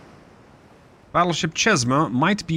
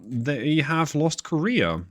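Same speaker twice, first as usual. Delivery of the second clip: drawn-out announcement of big news; slow emphatic news; 3 semitones higher, much slower than usual. Real, not acted. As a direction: savour each word, slowly. Announcing Japan lost Korea.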